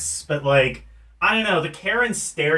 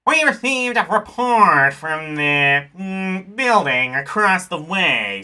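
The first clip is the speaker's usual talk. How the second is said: 1930s gangster voice. Acted. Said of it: "like, gangster voice?".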